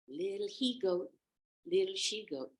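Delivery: nearly perfected imitation; wolf practicing. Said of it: "till he got it just perfect".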